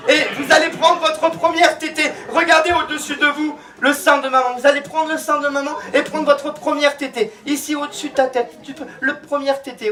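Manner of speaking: high-pitched, insistent commands; rousing stage hypnotist. Acted. Hypnotist urges newborns to first feed, rousing and high. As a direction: push the suggestion, voice held high.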